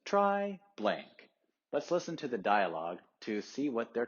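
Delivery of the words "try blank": sing-song quote. Retold or imitated. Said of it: "the other person says".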